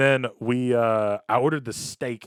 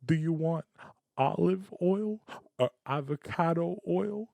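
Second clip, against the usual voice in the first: Italian dad; 9 semitones higher than usual. Pretend. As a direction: scold the date like an old-school Italian dad. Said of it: "is this how Italian men".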